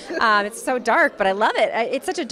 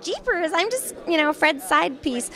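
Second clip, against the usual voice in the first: put-on higher, slow, sugary girly voice; old ditzy Daphne; 5 semitones higher than usual. Voice actress spoofing old-style Daphne, sweet and high. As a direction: airhead Daphne cooing, much higher. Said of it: "she's not like".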